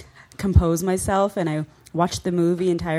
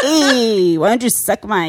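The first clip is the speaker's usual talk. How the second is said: put-on Cholo Mexican accent; 3 semitones higher, 8 dB louder, slower than usual. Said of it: "Cholo Mexican accent".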